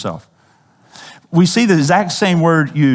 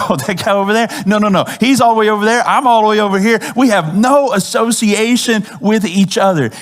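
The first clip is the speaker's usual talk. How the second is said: raised, higher, hammed-up denial, waving him off; mock denying Peter; 5 semitones higher than usual. Preacher acting Peter denying Jesus, higher and hammed-up. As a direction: play Peter pushing Jesus away, a touch hammed up.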